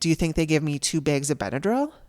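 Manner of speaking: indignant, affronted, pissed-off, offended tone. Retelling the complaint about the Benadryl: imitating someone pissed off. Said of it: "He was so pissed".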